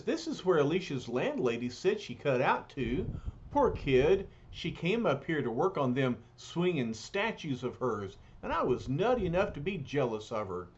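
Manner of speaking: streetwise bruiser, lightly voiced; rough, folksy big lug; gruff tough guy voice. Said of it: "here comes the Thing".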